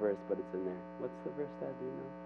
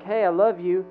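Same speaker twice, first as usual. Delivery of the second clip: loud, higher-pitched declaration; calling out; 6 semitones higher, 6 dB louder than usual. Acted. God calling to people who dismiss him, loud affection. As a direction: call it out openly and plainly.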